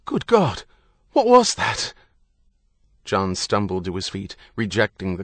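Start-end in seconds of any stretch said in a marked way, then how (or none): 0.0-1.9 high-pitched startled shout; shouted alarm. A narrator's reading. Bank manager rushing in after the blast, shouting. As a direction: cry out in shocked alarm.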